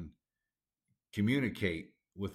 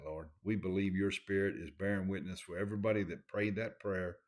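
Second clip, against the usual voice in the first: lower, subdued pastoral prayer; 3 semitones lower than usual. Real, not acted. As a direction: pray earnestly to the Father for the listeners. Prays aloud for the congregation.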